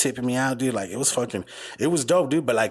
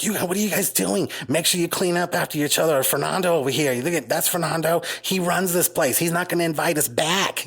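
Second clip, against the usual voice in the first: imitating caterer; 6 semitones higher than usual. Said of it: "She had this fucking Italian accent".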